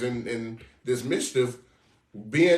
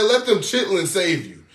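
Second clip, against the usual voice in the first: loud mock Lord; 4 semitones higher, 4 dB louder than usual. S0 voices the Lord.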